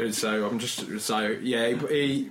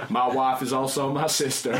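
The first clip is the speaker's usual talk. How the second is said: put-on terrible Southern accent. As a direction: land the joke in a bad American Southern accent. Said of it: "my terrible, terrible Southern accent".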